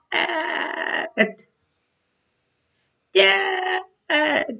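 a tiny faraway voice crying Dad; small child crying. Acted. The faraway baby calls to God, high and crying. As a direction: call out like a lost little child, tearful.

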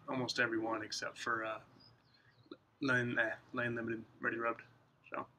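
clenched pipe speech; talking around a pipe. Real, not acted. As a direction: pipe stem between lips. Seen 1: Pipe stem held between lips from 0.5 s while he talks.

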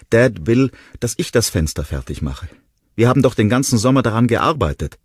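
put-on high, loud, desperate child's voice; a small boy pleading through despair. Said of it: "Er konnte kaum sprechen vor Verzweiflung". (verzweifelter Junge, hoch und laut, außer Atem)

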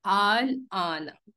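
long stretched madd recitation; Quranic recitation. Shown as a demonstration. Teacher recites the word for the class, vowel stretched. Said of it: "अब ये है".

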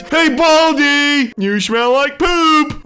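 sing-song the insult to tease him; mocking taunt. Player teasing Baldi on the call, mocking singsong. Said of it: "let's make fun of him to his face".

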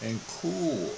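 slow, dropping low and soft; showily calm. Pretend. Preacher vowing restraint after yesterday's outburst, showily calm. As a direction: ease down into exaggerated cool. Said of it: "I'm going to be calm and cool".

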